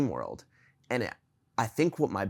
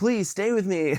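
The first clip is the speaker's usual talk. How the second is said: mock high, pleading, begging tone; 8 semitones higher, 4 dB louder than usual. Retelling own words in a dream, crying: imitating own begging. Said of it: "begging her to talk to me".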